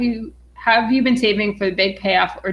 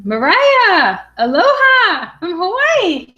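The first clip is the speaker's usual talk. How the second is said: high, louder delighted reading; excited greeting; 11 semitones higher, 4 dB louder, slower than usual. Real, not acted. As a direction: gush over the Hawaii viewer. Thrilled by a Hawaii greeting.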